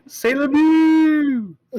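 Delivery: high, drawn-out laughing exclamation; laughing French cry. Pretend. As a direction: stretch it out in a laugh.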